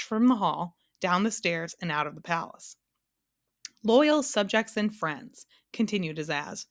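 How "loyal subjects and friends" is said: slow, stately speech to subjects; royal address. A narrator's reading. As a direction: address the hall, drawn out. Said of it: "his voice echoing in the almost empty room".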